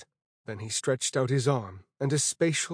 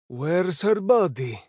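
put-on dark old man voice; 5 semitones higher, 4 dB louder, slower than usual. A narrator's reading. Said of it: "the old man asked darkly".

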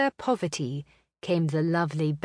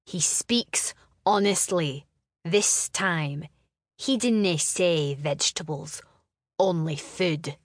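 gruff brother. Acted. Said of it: "his voice gruff".

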